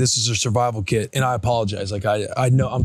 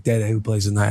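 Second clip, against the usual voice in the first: put-on lower, calmer child's question; toned down; 5 semitones lower than usual. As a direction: ask nicely this time. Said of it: "then she tones her voice".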